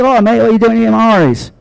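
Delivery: high, quick mock British accent; a singer impression. A singer greets a diner at the restaurant, high British accent. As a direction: put on a high-pitched British lilt, chatty. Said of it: "you can't do that without a British accent".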